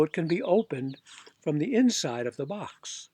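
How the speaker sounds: a hint of a stubborn Mister Popper; lightly voiced Popper. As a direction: stand your ground, mildly. Popper's insistent voice.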